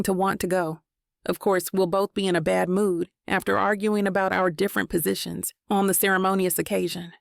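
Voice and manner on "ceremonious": ceremonious with its stressed syllable leaned on; ceremonious given clear weight. Shown as a demonstration. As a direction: push the word ceremonious. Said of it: "Stress on the word ceremonious".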